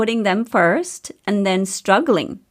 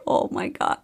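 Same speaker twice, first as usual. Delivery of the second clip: whispered surprise; 5 dB quieter than usual. Retold or imitated. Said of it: "I was like".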